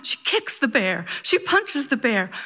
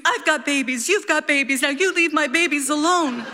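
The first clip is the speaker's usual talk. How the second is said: higher, raised, protective mock scream; fierce mother yell; 6 semitones higher than usual. Mom screams at the bear, protective mock yell. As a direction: yell like a mother guarding her young. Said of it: "she punches it and screams".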